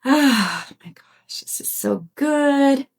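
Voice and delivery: slow, breathy whisper of relief; savouring the moment in a hushed voice; real whisper. Real, not acted. Host sighs after the breath, then whispers slowly in relief.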